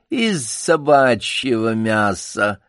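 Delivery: медленно и нарочито спокойно; выдержать паузу и бросить спокойно; деланое хладнокровие. Acted. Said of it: "с сделанным хладнокровием". (медленно, с деланым хладнокровием)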